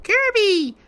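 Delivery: very high, loud yelp at a player; sudden high shout; shouted name. Real, not acted. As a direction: yell the player's name in alarm. Calling out at player.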